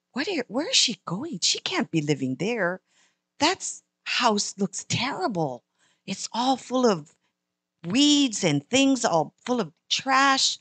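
put-on a kid staring, slowing down in disbelief; dismayed little girl. Girl tells mom about friend's house, slow puzzled child voice.

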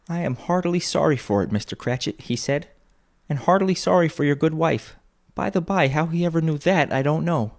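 high, animated father's voice; earnest Bob quoting. A narrator's reading. Bob quotes the nephew's sympathy to his wife, animated and earnest. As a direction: retell the kind words with lifted pitch.

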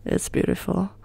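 soft, hushed admiration; hushed awe. Real, not acted. Gamer gazing at the Ferrari, hushed. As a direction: say it softly, awestruck.

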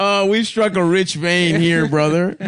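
laughing through the words; chuckling while speaking. Real, not acted. Laughing at the bit.

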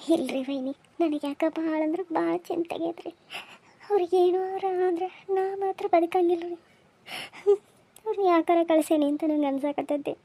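crying with catches of breath; tearful worry. Acted. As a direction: fret aloud through tears. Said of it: "ರಾಣಿ ಸುಮ್ಮೀರ್ ರಾಣಿ". (ಅಳುತ್ತಾ, ಚಿಂತೆಯಿಂದ)

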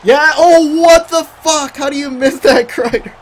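high, loud cry of disbelief; disbelieving shout. Real, not acted. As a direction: yell at the missed shot. Missed chance, shouting in disbelief.

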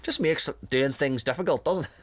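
lightly voiced Northern Irish grumble; a hint of a Northern Irish butcher; imitating a Northern Irish butcher; Northern Irish accent. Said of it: "I'm just giving him a generic Northern Ireland accent".

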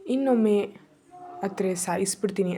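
plain reading voice

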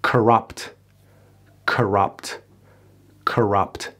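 "Corrupt" with a weak "kuh" at the start; schwa, correct English. Shown as a demonstration. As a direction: reduce the first vowel of "Corrupt".

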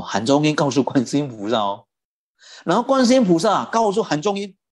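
usual speaking voice

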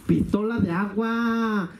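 slow, stretched-out announcement; drawn-out prize reveal. Acted. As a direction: draw out each word to present the prize.

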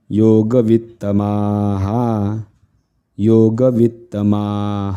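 योगवित्तमाः ending in an echoed, held हा; visarga as हा. Shown as a demonstration. Teacher demonstrates visarga, sounding हा after योगवित्तमाः. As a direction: chant योगवित्तमाः with a long final हा. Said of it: "त्याला हा असं म्हणावं लागतं".

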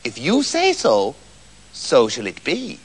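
slow, low, soft pronouncement; quiet, ominous little-man voice; mysterious little man. A narrator's reading. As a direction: let it fall softly and slowly, like a spell. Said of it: "said the little man".

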